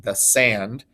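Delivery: "the sand" with light "the", stressed "sand"; iambic stress. Shown as a demonstration. Teacher showing an iamb at the beginning, stress on "sand". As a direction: lean on "sand" after a weak "the". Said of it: "it's an iamb at the beginning".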